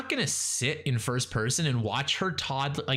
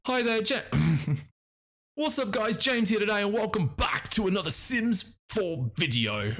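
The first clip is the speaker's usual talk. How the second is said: James Turner impression; 9 semitones higher than usual. Trying out James Turner's voice for a house video, hammed-up high intro. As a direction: ham up a cheery channel intro. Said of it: "let's say I roll James Turner".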